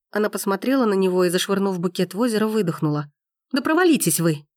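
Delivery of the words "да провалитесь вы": angry curse. A narrator's reading. Gabrielle cursing Forster, exasperated. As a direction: fling it at him.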